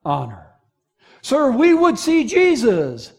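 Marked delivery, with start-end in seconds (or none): 1.2-3.1 petitioner's request. Acted. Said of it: "Greeks asking the disciples".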